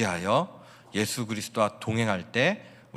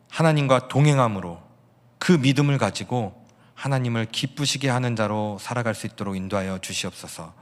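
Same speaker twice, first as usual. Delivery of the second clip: a pastor's heartfelt public prayer; closing prayer. Real, not acted. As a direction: pray over the congregation, fervent but steady. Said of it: "제가 기도하겠습니다".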